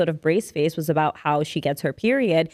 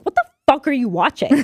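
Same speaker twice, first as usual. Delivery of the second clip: higher, mildly raised mock scolding; outraged mom; 6 semitones higher, 4 dB louder than usual. Mom catching child watching period episode, mock outrage. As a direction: demand it in a higher, appalled voice. Acts mom's outraged reaction.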